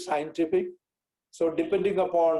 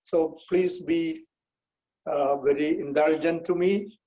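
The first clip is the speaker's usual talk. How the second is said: Indian English with a Kerala accent. Real, not acted. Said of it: "I'll be speaking with an accent".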